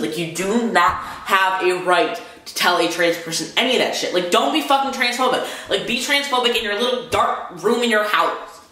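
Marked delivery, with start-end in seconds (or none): 4.1-8.6 heated, pitched up high without shouting; real anger pushing the voice up; venting fury at transphobes, pitched up high; mad rant. Real, not acted. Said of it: "It makes me so mad".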